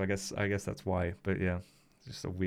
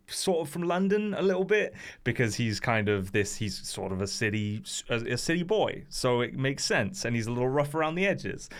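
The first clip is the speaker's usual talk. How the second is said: put-on slightly heightened London city-boy accent; more British London accent. Shown as a demonstration. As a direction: talk a bit more London, a little rough round the edges. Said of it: "an accent that sounds more British".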